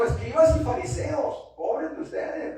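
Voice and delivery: high-pitched indignant denunciation; preacher acting out an angry Jesus; angry rebuke. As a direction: call them out, then slow into scornful pity. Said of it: "Jesús estaba enojado".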